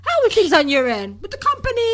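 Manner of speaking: a hint of a sugary wife checking in; mock caring girlfriend. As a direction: play a doting girlfriend asking about his day. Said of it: "you never hear them say".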